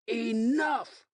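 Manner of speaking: high, loud commanding shout. Acted. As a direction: shut the fight down with one word. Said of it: "Michael shouted".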